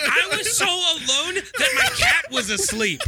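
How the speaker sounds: high, slow, laughing wail; hammed-up self-pity, drawn out; mock-pitiful lament. Comic lament about loneliness.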